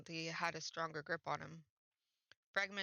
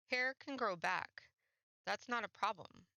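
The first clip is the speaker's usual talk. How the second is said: reassuring; 3 semitones higher than usual. Acted. Reassuring her eagerly.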